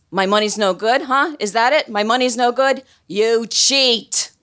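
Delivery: high, indignant mock outburst; agitated. Agitated man challenging the card players, agitated. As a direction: imitate an agitated man, pitch jumping up. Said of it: "this really agitated guy".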